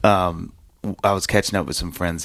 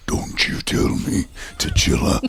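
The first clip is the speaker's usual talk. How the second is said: high strained mock rage; dad blowing up at his son, imitated in a strained high voice; imitating an angry dad; slower than usual. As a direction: play the exploding father, pitched way up. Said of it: "his head would explode".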